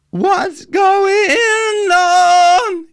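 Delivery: very high, slow, open yawn-like tone. Shown as a demonstration. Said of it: "I can reach that with that yawning".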